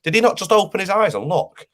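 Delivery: high-pitched disbelieving exasperation; ranting in angry disbelief; exasperated rant. Real, not acted. Fan ranting about poor player.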